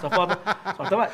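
lightly amused, languid put-on character voice; Félix. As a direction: draw it out as a haughty, mocking son. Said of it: "e aí vinha o Félix".

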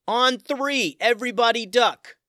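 high, loud command while running; yelled out. Acted. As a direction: bark the order to the whole group. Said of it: "Tim yelled out".

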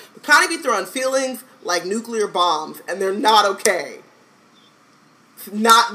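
loud, slow emphatic rant. Real, not acted. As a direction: lay it out, building heat. Mock rant about Connie.

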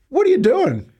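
high, startled barmaid shriek; shocked barmaid. Retold or imitated. Barmaid catching a teen pouring rum, startled high cry. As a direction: play the stunned barmaid catching him out.

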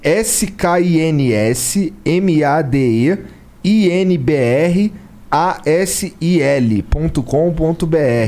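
slow, letter by letter; spelling it out. Shown as a demonstration. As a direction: spell each letter of skinsmadeinbrasil out slowly. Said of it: "Vou soletrar".

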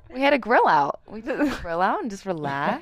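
raspy, hoarse smoker's voice. Real, not acted. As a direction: speak with a hoarse, scratchy throat. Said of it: "This is why her voice sounds like a smoker".

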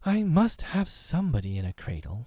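a hint of motherly sharpness; almost tart. A narrator's reading. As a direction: insist with a touch of tartness. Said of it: "she said almost tartly".

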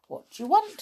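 high, loud brownie voice; brownie character. A narrator's reading. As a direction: demand it as a little brownie. Brownie asks dolls on meeting them.

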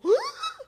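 high acted gasp of shock. Woman recalls seeing the positive test, shocked gasp. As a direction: gasp at a sudden discovery.

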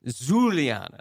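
Juliana with a careful "zh" at the start; copied Zh pronunciation. Shown as a demonstration. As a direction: try out Juliana as "Zhuliana". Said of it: "Like that".

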